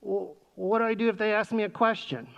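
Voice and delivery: imitated kid stalling with a question; anxious seventh grader. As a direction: ask like an unsure child. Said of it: "is what you'll hear next".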